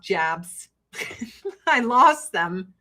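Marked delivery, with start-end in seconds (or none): 0.0-0.7 "jabs" for jobs, vowel fronted; Chicago vowel turning jobs into "jabs"; Midwestern "jobs". Shown as a demonstration. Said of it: "because of the way I talk".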